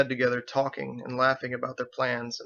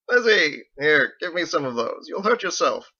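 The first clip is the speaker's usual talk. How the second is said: calls her name higher and louder, then fusses; fond concern; 5 semitones higher, 6 dB louder than usual. Acted. Husband rushing to relieve his wife, loud and fond. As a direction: hurry over to take her bags.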